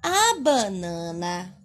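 slow read-aloud. Shown as a demonstration. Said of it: "Olha a palavra banana".

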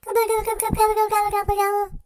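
high, loud turkey gobbling; turkey gobble. Pretend. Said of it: "doing my best impression of a turkey gobble".

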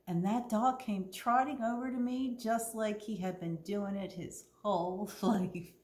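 clear, lively storytime reading voice; story narration. A narrator's reading. Librarian reads Winn-Dixie to the kids, storytelling. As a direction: read the story to the children.

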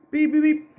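short vocal beep-beep-beep; spoken toy-car beeping; imitated car beeps. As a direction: mimic a little car horn.

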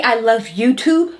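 "YouTube" with a B ending, slowed; quoting a mispronunciation. Retold or imitated. Partner questions the botched love reply, incredulous quote. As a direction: stretch "YouTube" as a disbelieving question, rising. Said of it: "did you just say".

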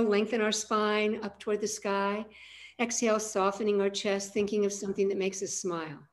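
a hint of guided meditation, calm and even; guided breathing. Coach guiding a group's breathing, calm and unhurried. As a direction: lead the group gently through the breath.

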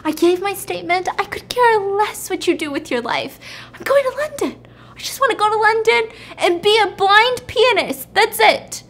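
high-pitched, emphatic insistence; acted-out outburst, pitched well up; exasperated protest. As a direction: plead your case, exasperated and high. Character protesting, acted in retelling.

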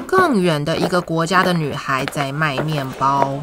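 gentle storytime voice, clear and even; reading to a toddler. Acted. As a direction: read it like a bedtime picture book. Reads picture book to children.

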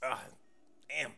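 halting, tongue-tied attempt; fumbling for words; nervous stuttering. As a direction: stall on ums and give up. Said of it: "Why was I stuttering?".

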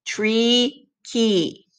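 "Tree, key" with the long ee endings leaned on; ending sound stressed. Shown as a demonstration. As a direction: point out the matching ee sound. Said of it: "What do you hear?".

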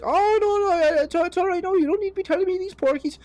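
very high, loud hammed-up Donegal guard; awful Irish accent. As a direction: brush it off in a squeaky Irish policeman voice. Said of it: "awful voice".

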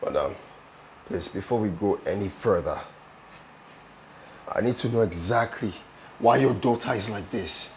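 low, soft and measured; restrained demand. Acted. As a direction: hold back and ask firmly, with pauses. Patient demanding explanation, holding back.

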